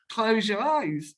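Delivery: slow, drawn-out CLOSE YOUR EYES; retold phone coaxing, slowed right down; insistent instruction. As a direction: stretch each word to coax them into it. Repeats instruction after the objection.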